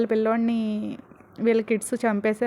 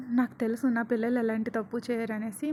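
softer, thought to himself; inner thought; 8 dB quieter than usual. A narrator's reading. Manu thinking to himself, soft and relieved. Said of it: "మనసులో అనుకుంటాడు".

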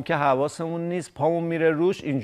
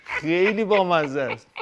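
laughing. Real, not acted. Laughing at the chick's stare.

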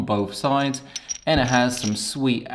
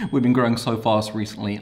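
breathless talking; words between short breaths. Real, not acted. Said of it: "I'm out of breath".

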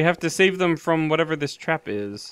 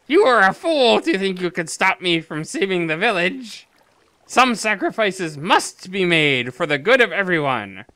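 put-on old man voice. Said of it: "I'm assuming this is old man voice".

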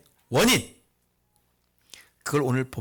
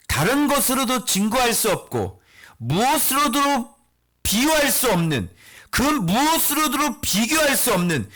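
forceful preaching; 9 semitones higher, 3 dB louder than usual. Acted. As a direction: preach with mounting, insistent force. Preacher builds to full-force exposition. (힘주어 외치는 설교)

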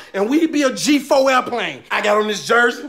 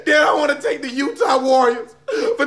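mock tearful thanks. Mock tearful thank-you speech.

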